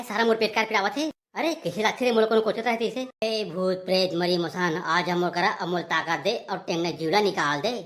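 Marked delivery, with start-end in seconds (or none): 3.2-7.7 lightly chanted ghost summons; witch's summons. Acted. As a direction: command the spirits in a measured incantation.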